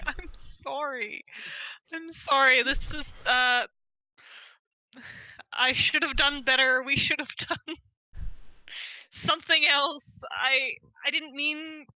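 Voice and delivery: put-on slow, tearful drunk apology; drunk crying apology. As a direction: sob it out slowly, drunk. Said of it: "I am going to start crying".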